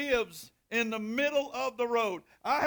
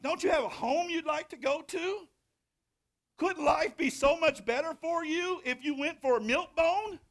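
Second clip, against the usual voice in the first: mock pleading; 7 semitones higher, 3 dB louder than usual. Pleading with the stray dog.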